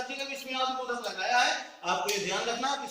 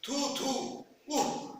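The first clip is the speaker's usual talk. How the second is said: mild disgusted "छी"; disgusted exclamation; 5 semitones higher, slower than usual. Shown as a demonstration. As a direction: spit out "थू थू" in disgust. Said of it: "घृणा बोधक".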